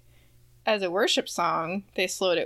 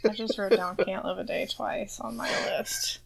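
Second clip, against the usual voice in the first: whispering; 5 dB quieter than usual. Real, not acted. Embarrassed aside.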